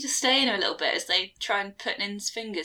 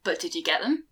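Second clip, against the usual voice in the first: Junimo voice; 9 semitones lower, 6 dB quieter, faster than usual. Acted. Junimo speaks.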